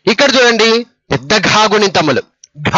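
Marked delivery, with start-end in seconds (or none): 2.6-2.7 ఘ with a strong breath after g; pressed aspiration. Shown as a demonstration. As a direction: press out ఘ as a heavy gha. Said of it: "ఒత్తి పలకాలి".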